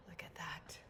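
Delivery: low, near-whispered wonder; hushed awe. Real, not acted. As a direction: drop to a hush, taken by the view. Awed by the view.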